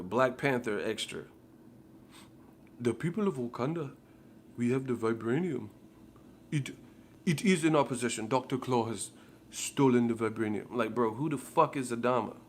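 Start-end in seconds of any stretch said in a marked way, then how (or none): 2.8-10.7 lightly put-on grand African king voice; mock Wakanda elder. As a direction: ham up a solemn movie king. Mocking a Black Panther character.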